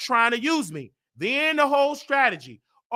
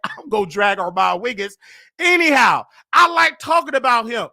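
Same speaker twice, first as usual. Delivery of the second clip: laughing loud; 4 dB louder than usual. Real, not acted. Laughing defiant retort.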